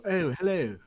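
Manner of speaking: proper Queen's English greeting; mock posh British accent, very proper. Shown as a demonstration. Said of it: "when people refer to a British accent".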